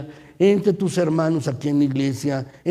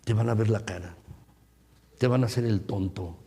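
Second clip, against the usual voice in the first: voicing the evil one; 4 semitones lower, 4 dB quieter than usual. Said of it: "¿sabes lo que dice el maligno".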